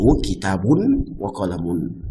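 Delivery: kitabun wa qalamun with clear -un endings; correct model. Shown as a demonstration. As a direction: settle on the right form.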